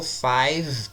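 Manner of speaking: "five" ending on a held V, no vowel after; "five" slowly, finishing on a buzzing V; stop on V. Shown as a demonstration. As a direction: close "five" right on the V sound. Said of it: "parou no V".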